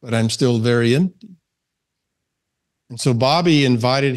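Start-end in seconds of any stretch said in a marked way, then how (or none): 0.0-1.4 lightly attempted German accent; a hint of a badly done German accent; mildly faked German accent for a quote. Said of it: "in my bad German accent".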